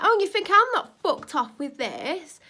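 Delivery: furious retort. Retold or imitated. Shouting back at the neighbour over swearing. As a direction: hurl it back at her in outrage.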